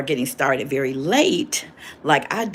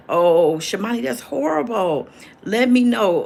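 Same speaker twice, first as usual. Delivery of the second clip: loud, high dismay; 8 semitones higher, 5 dB louder than usual. Real, not acted. Mother answers her daughter's work mishap with loud, high dismay. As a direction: cry out higher and louder in sympathy.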